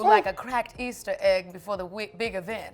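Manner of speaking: a hint of a snooty society lady; haughty grand lady. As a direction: look down your nose at her. Lady Miss insults Janet.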